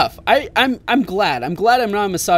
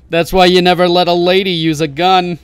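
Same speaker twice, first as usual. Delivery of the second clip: mock misogynist; 7 dB louder than usual. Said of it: "my misogynistic moment of the day".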